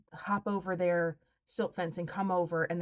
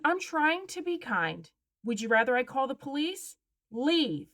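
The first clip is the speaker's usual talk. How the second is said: stern warning; 5 semitones higher, slower than usual. Retold or imitated. Warning trespasser she'll call police.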